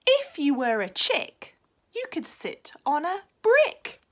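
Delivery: smiling. Acted. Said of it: "smiled the frog".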